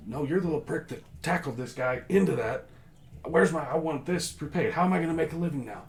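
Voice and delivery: high, loud, furious rant, speeding up at the end; halfling merchant screaming at the Queen's Guards. Acted. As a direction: scream at the guard who wrecked his cart. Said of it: "He's screaming at them".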